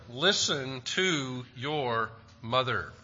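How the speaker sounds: slow and deliberate, each word weighed; Listen to your mother, spoken slowly and earnestly; slow exhortation. Shown as a demonstration. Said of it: "an exhortation to all children".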